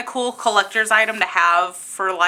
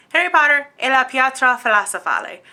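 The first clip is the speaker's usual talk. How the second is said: Italian pronunciation; 2 semitones higher than usual. Real, not acted. Reads the Italian title.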